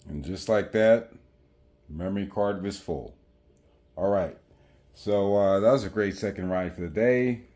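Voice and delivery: muffled, speaking through a helmet; talking inside a full-face helmet. Real, not acted. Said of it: "Sorry for the wind noise".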